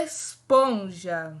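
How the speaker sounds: Esponja stretched out, low; very slow. Shown as a demonstration. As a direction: draw out Esponja slowly again. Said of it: "Mais uma vez".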